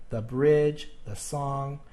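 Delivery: "the bridge, the song", each "the" said thuh. Shown as a demonstration. Teacher listing consonant examples, each "the" as thuh. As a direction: make "the" rhyme with duh. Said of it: "you say the. It rhymes with".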